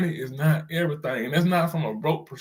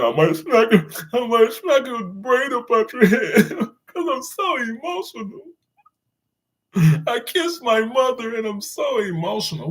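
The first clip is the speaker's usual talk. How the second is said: higher, hammed-up rapper voice with a laugh; mock rapper bragging, half laughing; pitched-up mocking imitation of a boastful rapper; imitating a rapper; 8 semitones higher, 3 dB louder than usual. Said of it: "And the rapper said".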